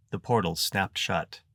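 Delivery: ordinary delivery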